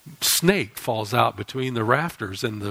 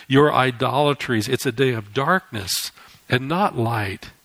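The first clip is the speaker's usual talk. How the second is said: stern God rebuking. Acted.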